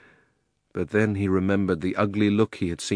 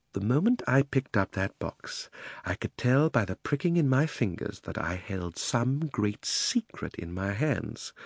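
hushed, mysterious; 2 semitones higher, 5 dB quieter, slower than usual. Acted. Uncle mysterious.

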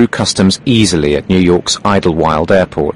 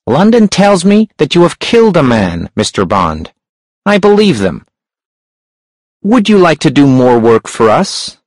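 a sharp, high-pitched hunchback; 7 semitones higher than usual. A narrator's reading. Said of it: "The hunchback's voice was sharp and high".

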